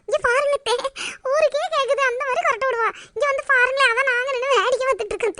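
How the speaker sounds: softly tells aunt about mother; hushed talk. Acted. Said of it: "மெதுவா பேசுங்க". (மெதுவான குரலில் அத்தையிடம் சொல்லுதல்)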